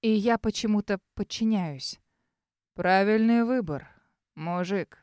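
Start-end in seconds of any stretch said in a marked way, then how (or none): 2.7-5.0 развязно. Acted. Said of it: "развязно говорит Серый".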